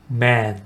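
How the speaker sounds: open, slightly drawn-out "man"; jaw-dropped long vowel. Shown as a demonstration. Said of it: "턱을 내리면서 조금 길게".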